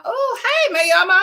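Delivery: sudden surprise. Real, not acted. Suddenly noticing a missed viewer.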